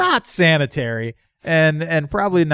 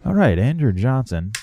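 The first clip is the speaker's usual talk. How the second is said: hushed golf commentary, lightly done; golf announcer; 3 semitones lower than usual. Acted. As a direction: murmur it like a TV golf broadcaster. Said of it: "golf announcer voice".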